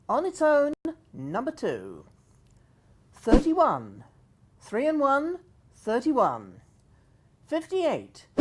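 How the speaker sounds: slow sing-song number calling; bingo caller. Acted. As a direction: call each number, then repeat it.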